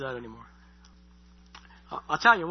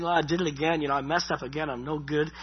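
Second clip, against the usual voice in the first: acted self-defeated admission, trailing downward; mock a resigned, going-through-the-motions confession; 3 semitones lower than usual. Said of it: "It's not just, you know, uh, going to God and saying".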